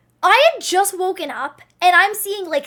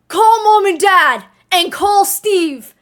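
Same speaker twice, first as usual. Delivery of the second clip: urgent call; 3 semitones higher, 6 dB louder, slower than usual. Retold or imitated. Brother dragged out, urgent instruction.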